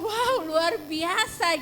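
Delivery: slow amazed praise; drawn-out wonder. Retold or imitated. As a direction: stretch it out in awe. Wife amazed at healing.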